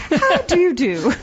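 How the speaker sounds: slow, put-on prim greeting; amused posh-character impression; mock-proper greeting. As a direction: draw it out with exaggerated politeness. Answering as the proper British character.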